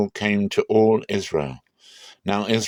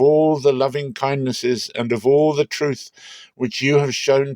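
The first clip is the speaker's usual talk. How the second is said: higher, pleading prayer of a frightened man; a frightened patriarch pleading, pitched higher; fearful Jacob praying; 4 semitones higher than usual. Acted. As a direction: beg God for rescue from his brother. Jacob prays in fear.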